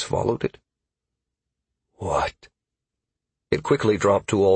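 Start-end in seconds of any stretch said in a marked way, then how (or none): 1.9-2.5 soft, low inner voice; a hushed question surfacing in the mind; alien thought. Acted. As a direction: say it low and quiet, like a stray thought. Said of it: "The alien thought".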